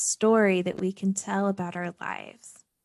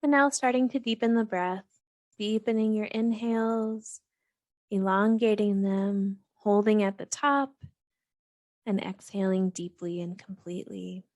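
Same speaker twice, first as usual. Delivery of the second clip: calm, even meditation guidance with long pauses; guided meditation. Real, not acted. Host guiding listeners to settle and breathe, calm meditation voice. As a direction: gently lead listeners through breath and body, unhurried between phrases.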